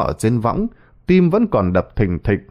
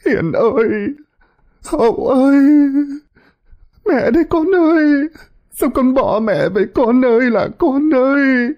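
sobbing wail; 14 semitones higher than usual. Acted. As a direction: sob out the sons' names in despair. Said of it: "Bà khóc nấc lên từng tiếng".

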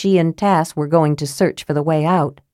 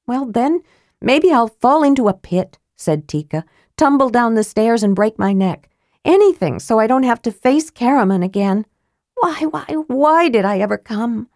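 higher, mournful lament; Tika, sulking girl, self-pitying; 5 semitones higher than usual. Acted. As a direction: wallow dramatically in misery.

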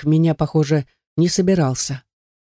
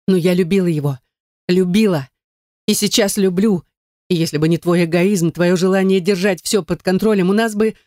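tearful outburst; 3 semitones higher than usual. Acted. Daughter shouting at father.

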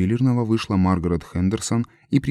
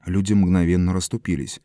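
ordinary delivery, nothing marked

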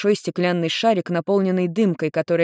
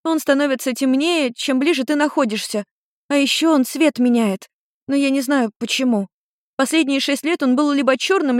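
put-on higher young girl's voice, eager; lightly voiced daughter telling her story; teen girl explaining; 8 semitones higher than usual.

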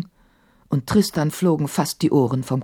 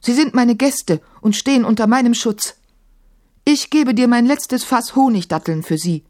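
caliph pleading; 6 semitones higher than usual. A narrator's reading. Maimun pleads with the djinn.

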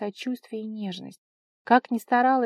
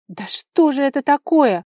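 slow, much louder and higher furious cry; angry scream; 6 semitones higher, 12 dB louder than usual. A narrator's reading. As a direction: scream it out in rage. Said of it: "зло прокричала Вара".

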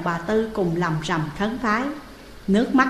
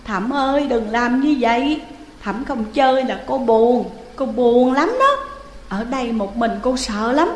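mild tearful pleading, rising higher at the end; whimpering plea; 3 semitones higher, 3 dB louder than usual. Acted. Ghost Hiền tearfully begging Thẩm not to leave. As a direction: beg him not to leave, near tears. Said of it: "Cô Hiền khóc lóc".

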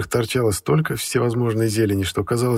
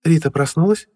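mother voice; 7 semitones higher, 5 dB louder than usual. A narrator's reading.

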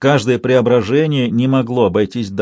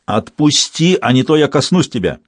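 shouting threat; 2 semitones higher than usual. Acted. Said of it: "Её крик перекрыл вопли толпы".

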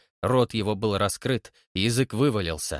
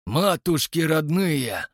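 put-on muttering old man; 5 semitones higher, slower than usual. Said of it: "пробормотал Егор Кузьмич".

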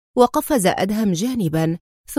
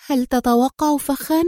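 higher-pitched anxious question; worried; 4 semitones higher than usual. A narrator's reading. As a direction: ask with mild alarm in the voice. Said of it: "امتلأ صوتها بالقلق وهي تسأله".

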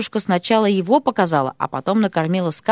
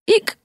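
surprised hiccup; 13 semitones higher than usual. A narrator's reading. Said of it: "сказала изумлённая Мартина".

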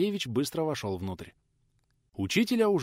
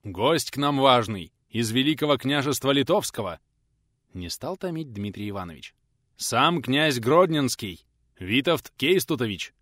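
grand announcement; 2 semitones higher, 5 dB louder than usual. Acted. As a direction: savour every title, watching his face. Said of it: "с лёгкой усмешкой закончил Донской".

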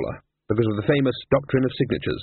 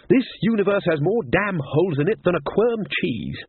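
higher-pitched, indignant grumble; grumbling old wizard; 5 semitones higher than usual. Acted. Ridcully complains of leaks into the universe, grumbling. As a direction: rant about past nuisances.

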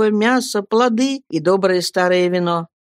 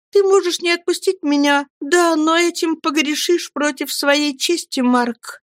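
put-on higher girl's voice, firm and earnest; earnest young woman; 10 semitones higher than usual. Girl explains to her lover he must truly believe, earnest. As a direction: plead your faith to him.

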